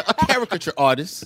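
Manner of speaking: "caricature" carefully stressed on CAR; corrected stress. Real, not acted. Guest resuming the wedding story amid laughter, corrected stress. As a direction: lead "caricature" with the stressed first syllable. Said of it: "I put the emphasis on the wrong syllable".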